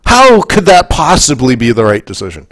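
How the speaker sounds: slowed, disbelieving outburst at a friend who won't vote; exasperated retort. Retold or imitated. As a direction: stretch it out in disbelief at her. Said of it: "I'm like".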